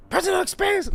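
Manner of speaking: very high-pitched mocking squeal; mock heckler. Viewer teasing the speaker about his research, high mock voice. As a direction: tease in a shrieky put-on voice.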